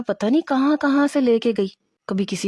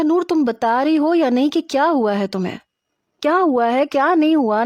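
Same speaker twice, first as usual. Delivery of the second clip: raised, higher, exasperated demands; frustrated; 5 semitones higher, 3 dB louder than usual. Acted. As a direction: lose patience with a friend. Kinza frustrated, Noor won't explain.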